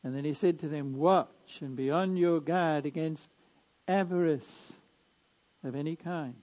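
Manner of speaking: measured liturgical reading voice; Gospel proclamation. Acted.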